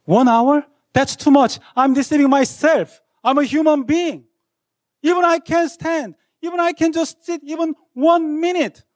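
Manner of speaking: put-on exasperated teenage protest; indignant outburst. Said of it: "but I feel like".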